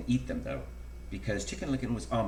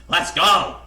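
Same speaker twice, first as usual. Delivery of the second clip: loud, high goose honk; 7 semitones higher, 12 dB louder than usual. A narrator's reading. Goosey Lucy joining the panicked birds, loud honk. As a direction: honk it out eagerly. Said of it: "honked Goosey Lucy".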